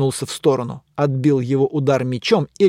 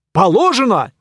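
knight insisting; 6 semitones higher, 5 dB louder than usual. Acted.

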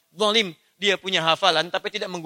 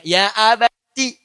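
son's tender reply; 3 semitones higher, 5 dB louder, much slower than usual. Acted. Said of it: "Lihat jawaban anaknya".

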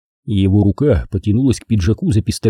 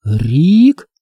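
higher, hesitant call; uncertain; 6 semitones higher, 3 dB louder than usual. Acted. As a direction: ask timidly. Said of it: "Голос Лайзы показался мне неуверенным".

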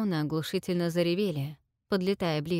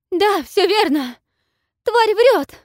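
much higher, very loud scream; shrieking yell; 14 semitones higher, 12 dB louder, slower than usual. A narrator's reading. Selsete betrays the queen to the dragon, shrieking. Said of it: "вдруг завопила Селсете".

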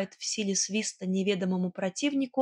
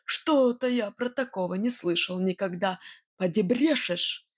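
distrustful. A narrator's reading. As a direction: say it through your teeth, doubting her. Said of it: "с недоверием процедил".

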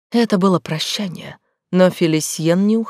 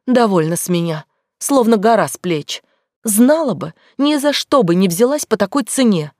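put-on capricious cold girl; 3 semitones higher than usual. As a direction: play the greedy, cold girl. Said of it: "утрируя свою роль жадной и холодной девушки".

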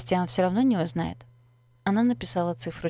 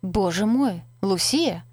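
booming shout; 3 dB louder, slower than usual. Acted. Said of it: "прогремел голос Кристиана".

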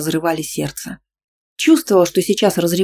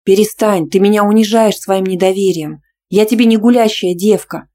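loud, higher shriek; 4 semitones higher, 8 dB louder than usual. Acted. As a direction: shriek it, humiliated. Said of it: "взвизгнула я".

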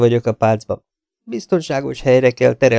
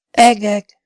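sharp high cry of alarm, much louder; exclaiming; 12 semitones higher, 7 dB louder than usual. A narrator's reading. Custom, hearing Wyatt saw Rier, exclaims loudly. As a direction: shout it out in shock. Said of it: "kiáltott fel Custom".

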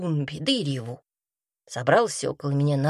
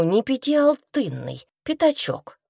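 pitched up high, bargaining hard; haggling; 9 semitones higher than usual. Retold or imitated. Old woman haggles with the cabbie, pitched up high.

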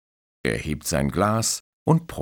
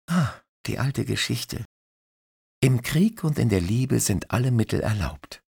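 put-on cheeky young woman; 7 semitones higher than usual. Christine, cheeky.

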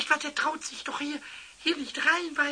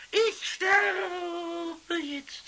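drawn-out wail; much slower than usual. Acted. Drunk Pumuckl wailing.

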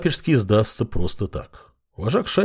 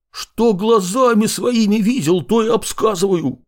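almost shouting it, pitched way up; near shout; 12 semitones higher than usual. A narrator's reading. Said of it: "почти прокричал Потрох".

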